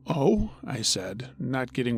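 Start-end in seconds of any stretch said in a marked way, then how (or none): 0.1-0.5 high, surprised little oh; puzzled oh. Retold or imitated. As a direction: feign mild confusion. Driver playing along, puzzled.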